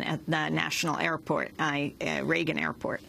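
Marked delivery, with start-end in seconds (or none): none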